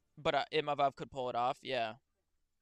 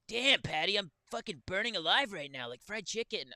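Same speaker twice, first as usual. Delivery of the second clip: high, loud burning scream; MMA Guru impression; 6 semitones higher, 4 dB louder than usual. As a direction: yell like you're burning alive. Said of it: "Guru's fucking impressions".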